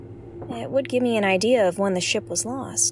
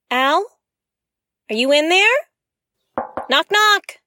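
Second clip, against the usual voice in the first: louder and higher, calling to Al; calling through a door; 7 semitones higher, 5 dB louder than usual. Real, not acted. Locked out, she calls to Al through the door. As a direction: call out to Al behind the door, rising.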